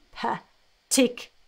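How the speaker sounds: "Particularly" said slowly, syllable by syllable; slow pronunciation. Shown as a demonstration. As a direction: spell out "Particularly" slowly and clearly. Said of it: "let me pronounce it slowly".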